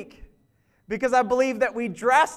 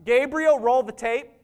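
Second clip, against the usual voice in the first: commanding; 3 semitones higher, 4 dB louder than usual. Retold or imitated. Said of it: "he's gonna be like".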